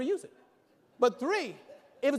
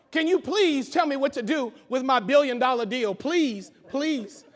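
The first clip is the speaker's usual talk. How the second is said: mock begging; 6 dB louder than usual. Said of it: "beg you to help me".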